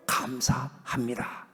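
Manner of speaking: soft, slow 감사합니다 after the cry; Jesus quietly gives thanks; hushed thanks. Acted. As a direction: let the thanks fall to a murmur.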